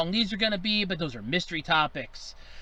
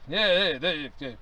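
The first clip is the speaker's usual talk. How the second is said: Professor Crump voice; 3 semitones lower than usual. Acted. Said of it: "This is Professor Sherman T. Crump".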